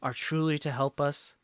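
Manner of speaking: loud opening, settling into measured doubt; rally the crowd, then caution them; challenging townsfolk orator. Acted.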